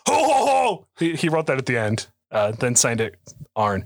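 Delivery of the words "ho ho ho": jolly high Santa laugh. Retold or imitated. Santa laugh closing Arn's letter.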